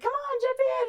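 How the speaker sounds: high, loud mock call to jump; playful urging shout, imitated; kids calling her in.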